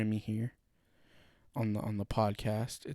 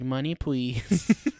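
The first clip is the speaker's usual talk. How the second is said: slow greedy demand; 4 dB louder, much slower than usual. Retold or imitated. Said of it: "And they're like".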